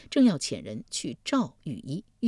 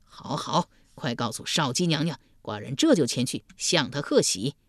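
pleased duke; 2 semitones lower than usual. Acted. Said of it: "晋献公喜道".

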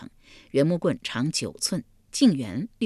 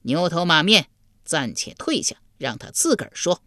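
slightly raised voice. Acted. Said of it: "他略略抬高了声音道".

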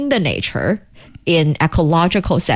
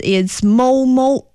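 cow moo; 5 semitones higher, slower than usual. Shown as a demonstration. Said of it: "In Chinese".

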